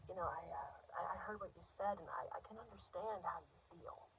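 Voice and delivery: soft, hesitant shy guy voice; man from group. Acted. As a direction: approach gently, stumbling over the start. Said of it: "He's like".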